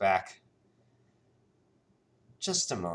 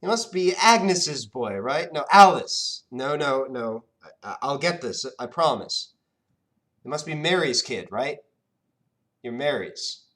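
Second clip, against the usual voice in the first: higher, louder, searching genie; puzzled genie; 6 semitones higher, 9 dB louder than usual. Acted. Genie struggling to recall the boy's name, high and searching. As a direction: grope for a forgotten name. Genie guessing mothers' names.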